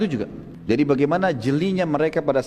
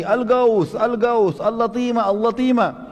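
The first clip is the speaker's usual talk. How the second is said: higher, panicked calls for help; crying for help; 7 semitones higher, slower than usual. Retold or imitated. Damdam entering the gate of Mecca, high panicked calls. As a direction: wail it out like a man fleeing an attack. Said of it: "teriak lagi".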